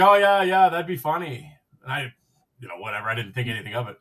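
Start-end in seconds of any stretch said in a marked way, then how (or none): 0.0-1.6 quick, excited yeah yeah, pitched higher and louder; agreeing to a friend's bracket idea, excited; excited agreement. Retold or imitated.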